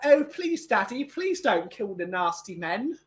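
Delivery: put-on simper like a helpless little girl; pleading daughter. Mocking the daughter begging her father, whiny plea. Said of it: "she's like".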